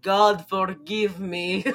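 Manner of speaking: slow, drawn-out mock solemn plea. Retelling Tommy's final words before the gun, mock solemn. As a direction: drag out "God forgive me" like a hammy last prayer.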